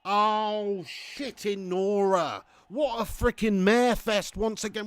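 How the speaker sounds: slow, drawn-out exasperated groaning words; exasperated dismay. Real, not acted. Streamer lamenting another mare fest, exasperated. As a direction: drag the curse out in disbelief. Reacts to conceding late in game.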